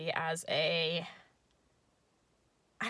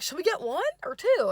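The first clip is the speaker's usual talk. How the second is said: higher voice; 9 semitones higher, 7 dB louder than usual. Retold or imitated. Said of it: "he's like".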